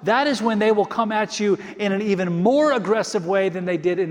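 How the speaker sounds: building sermon delivery, rising and falling; preaching. Acted. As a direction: preach it to the congregation. Preaching at full force.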